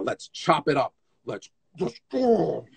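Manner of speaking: drawn-out, mock eager battle cry; slow down into an exaggerated "let's go"; hammed-up dancer itching to show off; showy young dancer. Mocking young showy dancers' impulse.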